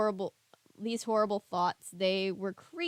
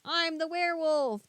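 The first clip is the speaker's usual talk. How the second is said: much higher crazed shriek; shrieking hermit; 7 semitones higher than usual. A narrator's reading. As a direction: scream it like a madman. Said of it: "the hermit shrieked".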